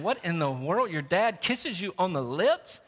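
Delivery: mock disbelief, swooping up at the end; scandalized question with a big final rise; incredulous friends. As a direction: imitate a kid's appalled question. Sons' friends react in disbelief.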